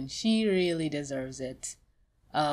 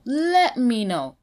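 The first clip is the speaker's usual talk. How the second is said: higher, louder, slow; loud insistent repeat; 6 semitones higher, 7 dB louder, slower than usual. Real, not acted. Vlogger offers the artist help against harassers, loud and slow. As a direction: drive it home.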